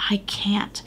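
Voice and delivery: soft whispered admission; whispered surrender. Pretend. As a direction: breathe out I can't as a surrender. Surrender prayer to God.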